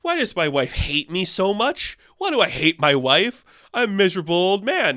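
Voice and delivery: mock the whiny self-pity of a miserable old man; hint of a miserable Napoleon. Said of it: "the next scene will cut to".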